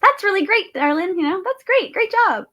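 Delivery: mock high-pitched, loud cheerleading; generic gushing praise. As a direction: hand out hollow praise in an exaggerated high voice. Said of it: "Instead of the generic".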